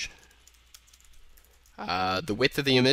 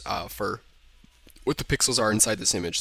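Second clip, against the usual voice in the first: talking through hiccups; hiccuping. Real, not acted. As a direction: speak while fighting the hiccups. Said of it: "Sorry, I'm kinda hiccuping right now".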